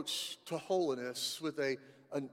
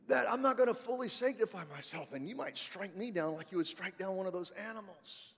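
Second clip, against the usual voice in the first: Moses frightened; 4 semitones higher, 5 dB louder than usual. Retold or imitated. Moses telling God he is scared, mildly fearful voice. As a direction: play Moses half-joking about his fear. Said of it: "Moses is going".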